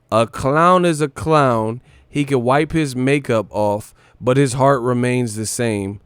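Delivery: mock solemn quote. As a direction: intone it like a mock proverb. Quoting the interviewee.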